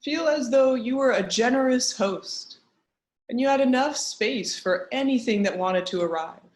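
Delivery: measured meditation guide with long pauses; guided meditation. Acted. Teacher guiding an online group through a grounding practice, guided meditation. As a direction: lead them gently inward, pausing between instructions.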